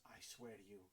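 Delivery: soft, slightly subdued pleading; quiet, heartfelt assurance; earnest sincerity. Acted. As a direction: apologise as sincerely as you can muster. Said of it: "as much sincerity as he can muster".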